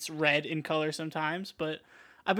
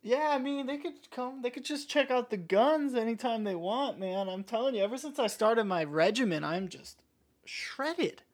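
higher-pitched pumped-up gym bro; roided-up bro voice; 6 semitones higher than usual. Acted. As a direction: brag like a juiced-up lifter.

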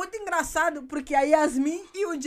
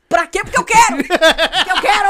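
louder mock defiance; defiant outburst; 3 semitones higher, 8 dB louder than usual. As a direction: hurl it back defiantly. Acted stubborn outburst.

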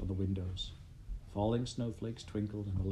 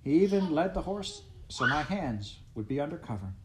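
laughing cheerfully; 5 semitones higher than usual. Acted. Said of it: "a pleasant voice answered".

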